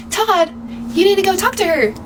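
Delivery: high, insistent mom voice; urging mom. Retold or imitated. Mom urging her son Todd to go over, high and insistent.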